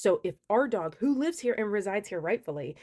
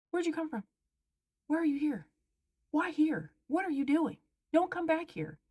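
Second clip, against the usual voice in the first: calling after them; 8 semitones higher than usual. Retold or imitated. Calling after fleeing trespassers.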